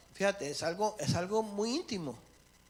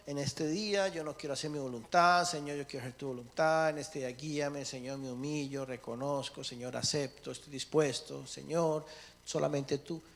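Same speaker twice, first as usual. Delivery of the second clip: a quiet yielding prayer; humble morning prayer; 5 semitones lower, 3 dB quieter than usual. Pretend. Preacher models the prayer Christians skip each morning. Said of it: "menos en decirle".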